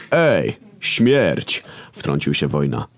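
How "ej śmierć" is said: calling out. A narrator's reading. War interrupts.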